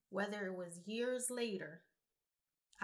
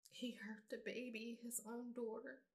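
choked up; 5 dB quieter than usual. Real, not acted. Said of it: "I'm sorry if I'm getting emotional".

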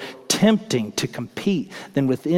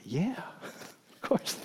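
a giddy, laughing yeah, higher and much softer; foolish laughing reply; 7 semitones higher, 12 dB quieter, much slower than usual. Retold or imitated. Disciples answering Jesus too eagerly, laughing. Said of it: "And they foolishly reply".

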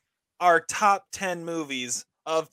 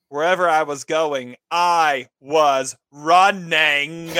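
louder, very slow, breaking into laughter at the end; can't hold the laugh back by "running"; laughing quote; 8 dB louder, slower than usual. Retold or imitated. Host sharing Forrest Gump quote, cracking up while saying it. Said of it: "I'm talking about Forrest Gump".

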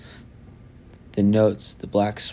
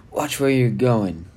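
put-on slow, louder grumpy old shopkeeper; old man shouting; 3 semitones higher, 4 dB louder than usual. A narrator's reading. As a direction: bark it at the kids like a cranky old man. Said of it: "the man shouted".

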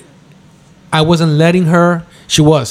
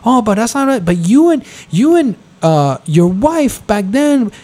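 mock whiny sister; 7 semitones higher than usual. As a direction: mimic her as petty and wounded. Imitating sister's complaint.

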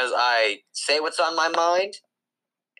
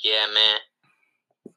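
lower, laid-back dude drawl; changed accent; 5 semitones lower than usual. Acted. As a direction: slide into a chill dude voice. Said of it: "How'd your whole voice just change".

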